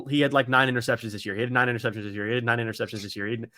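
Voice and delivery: low, quick repetitive grumble; droning mock comment chorus; mimicked commenters. Mimicking commenters repeating the same complaint.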